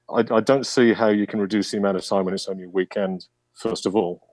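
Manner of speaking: muffled behind a face mask; talking through a face mask. Real, not acted. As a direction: speak with a mask over your mouth. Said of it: "can you hear me okay with this mask".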